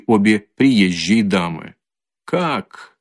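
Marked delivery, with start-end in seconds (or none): 2.3-3.0 high, furious shriek. A narrator's reading. Katerina shrieking back at Luzhin, who called her mad. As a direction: shriek it at him, insulted. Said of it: "взвизгнула Катерина Ивановна".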